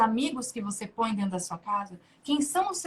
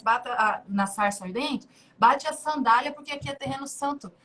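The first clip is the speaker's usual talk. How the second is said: voice of God. Retold or imitated. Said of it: "assim que Deus falou pra Moisés".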